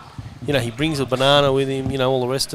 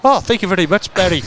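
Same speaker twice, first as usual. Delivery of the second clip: Seamus impression; 3 semitones higher than usual. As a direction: play Seamus the rich winner, smug and cheerful. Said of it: "it's not Seamus. I know it sounds like him".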